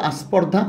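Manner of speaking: আস্পর্ধা said with an added a before the sp; prothetic vowel. Shown as a demonstration. Teacher shows students the extra vowel in আস্পর্ধা. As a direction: add a vowel sound before স্পর্ধা to make আস্পর্ধা. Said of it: "এই কথাটা তোমরা কিন্তু কখনো শুনছো".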